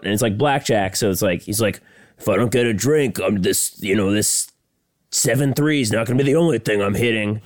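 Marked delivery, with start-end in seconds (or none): 2.2-7.4 raised-pitch imitation of a fuming gambler; retold frustrated outburst; mock freak-out. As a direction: lightly act out a gambler's threat. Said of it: "so he's freaking out".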